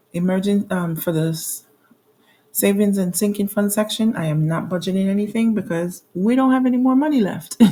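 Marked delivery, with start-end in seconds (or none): 6.1-7.7 real rueful laugh at the end. Real, not acted. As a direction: break into a laugh as the sentence ends. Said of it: "I'm laughing because".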